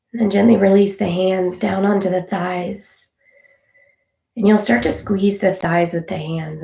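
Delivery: unhurried meditation guide with long pauses; calm, even instructor leaving space between phrases; guided meditation. Real, not acted. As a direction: gently talk listeners through noticing their breath.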